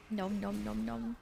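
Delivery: munch it out softly; nom nom chomping. Pretend.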